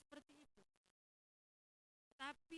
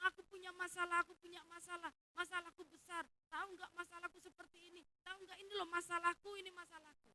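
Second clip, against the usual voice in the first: higher and louder, pushing the problem on everyone; exaggerated complainer; 6 semitones higher, 11 dB louder than usual. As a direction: keep ranting about your big problem. Imitating people who vent their problems. (keluhan berlebihan, suara tinggi dan keras)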